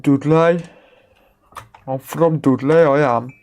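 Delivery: "Dudley" said as "Dud-lay" in broad Black Country; Black Country accent. Pretend. To chat, proudly saying "Dudley" in Black Country accent. Says Dudley in a hammed-up local voice.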